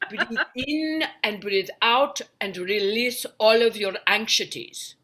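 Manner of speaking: slow, lightly put-on soothing guide; a mild parody of a meditation tape, drawn out. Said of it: "So a woman's like".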